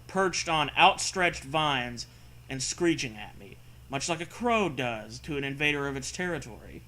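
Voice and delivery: steady read-aloud narrator voice; story narration. Acted. Reads the story text aloud.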